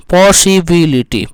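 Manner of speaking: पॉसिबिलिटी slowly, syllable by syllable; split into syllables. Shown as a demonstration. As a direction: stretch each beat of पॉसिबिलिटी, पॉ-सि-बि-लि-टी. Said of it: "आ रहा है कि नहीं". (पॉसिबिलिटी को खंडों में धीरे बोलना)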